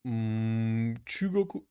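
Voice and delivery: ordinary delivery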